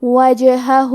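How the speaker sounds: وجہہ with the silent ج bouncing; echoing ج in وجہہ; qalqalah on jeem. Shown as a demonstration. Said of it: "ہلاتے ہوئے یہ کلمہ کو پڑھیں گے".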